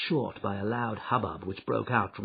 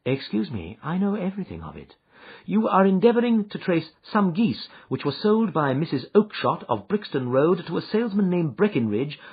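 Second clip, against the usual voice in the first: Holmes, calm and assured; 7 semitones higher, 4 dB louder than usual. Acted. Holmes's voice in narration.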